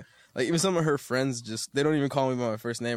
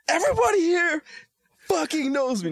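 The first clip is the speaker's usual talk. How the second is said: much higher and louder, hammed-up boast; mock bragger; 6 dB louder than usual. Rapper mocking his friend as a bragging local star. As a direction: puff it up like a show-off.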